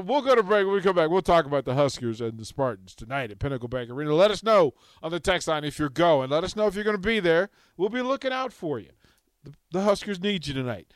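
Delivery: fast upbeat announcer read; radio promo read. Acted. Host to listeners before break, fast announcer read. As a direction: pitch the game to listeners.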